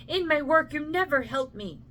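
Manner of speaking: a mother berating her idle son, climbing to a shrill pitch; scolding mother. Acted.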